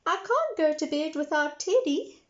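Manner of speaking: put-on high worried little girl. A narrator's reading. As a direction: plead like a small girl. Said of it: "said Peppa".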